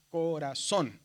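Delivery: "Corazón" with the weight on ZÓN; "Corazón", sounded out toward a strong last syllable; stressed last syllable. Shown as a demonstration. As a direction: lean on the final syllable of "Corazón". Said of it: "¿Dónde está el acento?".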